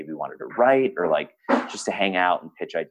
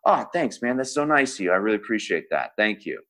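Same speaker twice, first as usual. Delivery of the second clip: A singer impression; 3 semitones higher than usual. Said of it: "I'm gonna speak as a singer".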